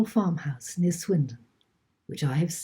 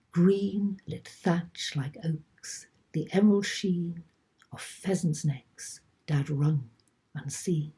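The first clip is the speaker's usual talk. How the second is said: measured poetry recital with long pauses; spoken verse, pausing deliberately between phrases; poem reading. Acted. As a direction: read the poem line by line, letting each phrase settle. Reads own poem.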